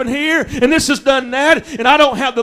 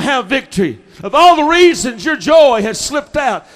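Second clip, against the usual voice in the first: preaching build. Acted. Preaching the reasons list, building.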